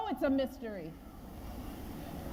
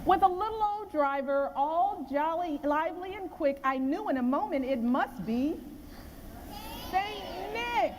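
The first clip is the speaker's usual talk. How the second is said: measured storybook reading of the poem; poem read to children; 2 semitones higher than usual. A narrator's reading.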